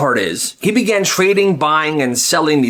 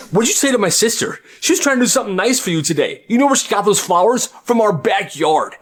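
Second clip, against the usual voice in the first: brother yells; 7 semitones higher than usual. Acted. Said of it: "he yells at that teacher".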